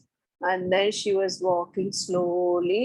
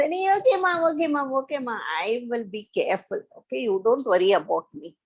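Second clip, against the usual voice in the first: put-on quick, brushing-off kid voice; eager little frog; much faster than usual. Little frog promising his mother quickly, in a rushed kid voice. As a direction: rattle it off like a child reassuring mom. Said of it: "So the little frog says".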